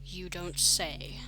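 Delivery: slow, mildly cold reply. Acted. Mom interjecting to the policeman, coolly and slowly. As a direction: draw it out coolly. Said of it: "Mom interjected in a cold voice".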